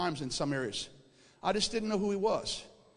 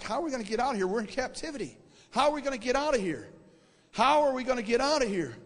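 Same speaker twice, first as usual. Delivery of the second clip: freaking out; 4 semitones higher than usual. Retold or imitated. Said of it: "I'm kinda freaking out".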